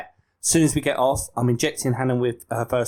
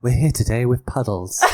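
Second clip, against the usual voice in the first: woman's voice. Shown as a demonstration. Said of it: "Just try and do a woman's voice".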